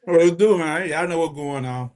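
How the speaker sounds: talking with a mouth full of cereal. Real, not acted. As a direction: chew and talk at once. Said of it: "Excuse me, eating".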